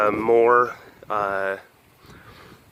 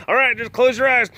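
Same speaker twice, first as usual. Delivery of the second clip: high, sing-song mock sprayer; mock soothing voice; 11 semitones higher than usual. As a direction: pretend to gently lull someone. Mocking pest sprayer at car.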